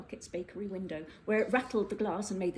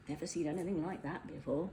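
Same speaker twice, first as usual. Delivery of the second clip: muttered aside; 3 semitones lower, 6 dB quieter than usual. Acted. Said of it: "muttered another".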